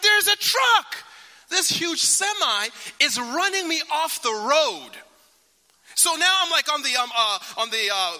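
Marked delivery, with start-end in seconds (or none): 0.0-4.9 high, loud panicked warning, easing off; panicked shout. Retold or imitated. Wife warns husband about semi truck, high panicked shout. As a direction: scream the warning then slow down. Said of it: "She's like".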